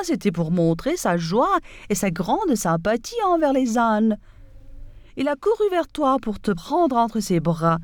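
lightly voiced, breezy and offhand; nonchalant fox. Fox smoothly reassuring the donkey, understated nonchalance. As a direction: shrug it off as if nothing happened. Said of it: "dit nonchalamment".

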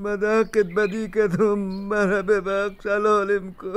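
put-on old father weeping to his daughter; crying. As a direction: beg forgiveness through tears. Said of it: "گریه نکنین پدر جان".

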